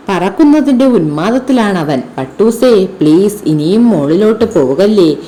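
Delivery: put-on lively storybook narration for children; ഉത്സാഹത്തോടെ കഥ വായിക്കുന്നു; story reading. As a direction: read the kite tale expressively to pupils.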